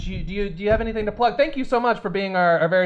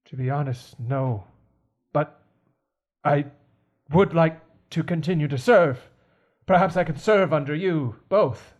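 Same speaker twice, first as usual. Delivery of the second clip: halting, formal butler; deferential servant; 4 semitones lower than usual. Acted. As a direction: humbly offer your service, with long pauses. Butler asks to keep serving.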